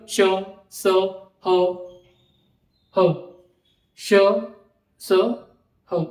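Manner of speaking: teacher hisses श and स with audible breath; breathy demo sounds. Shown as a demonstration. Teacher showing warm air leaving the mouth. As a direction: push air out on श, स, ह. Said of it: "देखो, उच्चारण करो".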